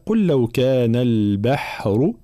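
slow recitation, البحر with thin b and h; light ba and ha. Shown as a demonstration. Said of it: "ترقيق الباء والحاء".

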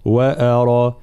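وأرى with a plain light a, then heavy ra; measured correct recited وأرى; correct light hamza. Shown as a demonstration. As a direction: keep أ in وأرى thin without tilting it to e. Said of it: "هكذا".

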